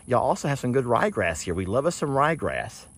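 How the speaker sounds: lightly voiced donkeys enjoying grass; voicing the donkeys. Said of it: "They're like".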